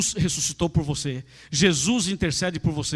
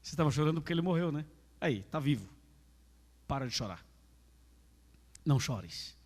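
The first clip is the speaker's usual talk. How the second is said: much softer, lower, gentle consoling; tender comfort; 3 semitones lower, 10 dB quieter than usual. Acted. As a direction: soothe the mother quietly. Jesus comforting the grieving mother. (consolo terno, baixo e suave)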